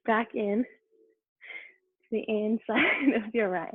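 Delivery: real laugh breaking up the cue; suppressed laughter. Real, not acted. Yoga teacher cueing her class, trying not to laugh. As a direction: giggle slipping into a slow instruction. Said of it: "I don't know why I'm laughing".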